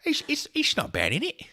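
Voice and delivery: high-pitched mock Brit; badly faked British accent, tickled by it; squeaky-high put-on British accent; terrible British accent. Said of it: "My terrible, terrible accent".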